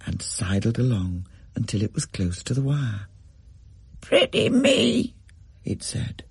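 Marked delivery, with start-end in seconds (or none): 4.0-5.1 high, slow, muffled bird croak; a budgie mumbling its words, slow and high; subdued bird voice. A narrator's reading. The white bird speaks to the family, high slow muffled croak. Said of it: "muffled and rather subdued".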